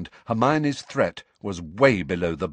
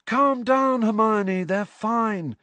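reassuring; 14 semitones higher, slower than usual. A narrator's reading. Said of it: "said Lee reassuringly".

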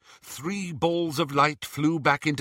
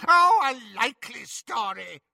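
sneering; 12 semitones higher, 4 dB louder than usual. Acted. Bellatrix sneering at prisoners.

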